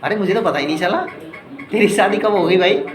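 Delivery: acting amazed at a friend's sudden wedding news; mock astonishment, rising; surprised. Shown as a demonstration. Teacher acting out a friend's surprise, amazed. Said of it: "ऐसे बोलते हैं ना एकदम आश्चर्य से".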